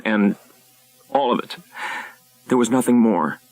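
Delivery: a hint of tears, defending herself to her husband; tearful wife. Wife justifying the debt to husband, rising upset pleading.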